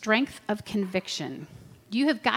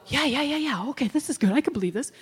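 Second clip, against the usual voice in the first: mock convinced viewer; 3 semitones higher, faster than usual. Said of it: "that you go".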